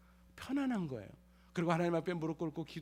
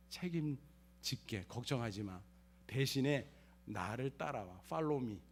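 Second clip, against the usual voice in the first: God's voice; 3 semitones lower, slower than usual. Retold or imitated. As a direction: speak as God, gently rebuking then reassuring. God rebukes then reassures.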